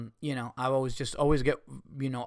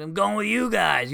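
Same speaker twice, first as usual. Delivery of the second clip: Dean Del Rey; 6 semitones higher, 4 dB louder than usual. Acted. Friend tells him he's coming along, imitated upbeat bro voice. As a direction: imitate an upbeat buddy, pitched up. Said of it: "You know Dean's voice".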